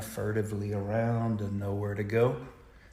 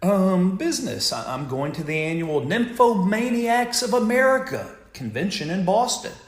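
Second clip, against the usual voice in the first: lightly voiced woman; 7 semitones higher than usual. Beautiful woman answers passenger.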